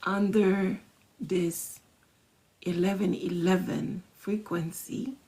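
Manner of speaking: slow, hushed affirmation fading to a whisper; softly intoned manifesting affirmation; affirmation read. Shown as a demonstration. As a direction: speak it like a quiet vow. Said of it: "you're gonna say".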